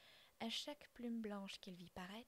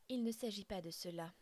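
réplique sèche et plus forte; 5 dB louder than usual. Acted. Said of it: "dit mon père".

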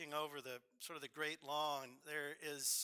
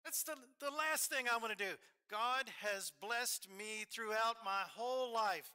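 mock Alabama accent, raised pitch and volume; 7 semitones higher, 4 dB louder than usual. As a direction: imitate Bill's Alabama accent, excited. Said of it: "here I've got this Alabama accent".

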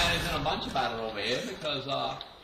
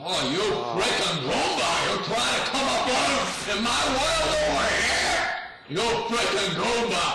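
shouting higher at an enemy in the game; excited yell; 6 semitones higher than usual. Real, not acted. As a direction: yell it at the guy sneaking up. Yelling at enemy player.

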